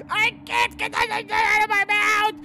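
mock muffled panic. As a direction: plead through a mouthful. Voicing a choking character.

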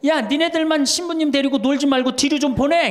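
mock-impatient shout from the back seats; calling out from the back. Women at the back call out.

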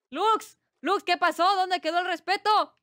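mock scolding. Streamer scolds chat member Lux over respect, mock indignant. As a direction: play at being outraged.

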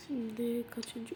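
soft, slow whispered "Şimdi kaçıncı"; whispered question. Real, not acted. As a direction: ask it under your breath. Asking quietly mid-game.

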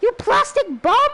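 high, playful jab at the machine; mock insult. Real, not acted. Player mock-insults the plastic robot, high and playful. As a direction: tease the robot.

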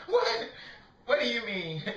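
high squeaked what, through laughter; laughing question. Real, not acted. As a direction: ask it while cracking up. Laughing reply to someone.

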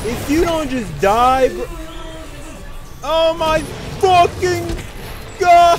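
furious yell. Real, not acted. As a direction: blow up at the game. Raging at an enemy who won't die.

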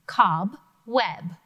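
Cobweb with a break between cob and web; split syllables. Shown as a demonstration. Teacher splitting cobweb into syllables. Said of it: "separate the syllables".

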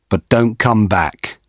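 ordinary delivery, nothing marked

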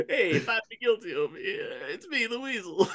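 high, playful weasel impression; goofy weasel voice. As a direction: goof it up like Pauly Shore. Joking Pauly Shore bit.

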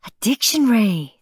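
prim little brother. A narrator's reading. Perfect child answers Santa.

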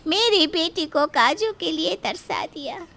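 slow, soft wailing complaint; mother lamenting her daughter's in-laws, slow and tearful; mock lament.

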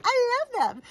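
high, loud fan squeal; imitated gushing. Partner teacher raving about floss tubers, gushing. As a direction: mimic a friend gushing at top pitch.

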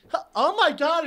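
gasping high exclamation; shocked girlfriend. Retold or imitated. Girlfriend comes out and sees his eye, high mock-shocked gasp.

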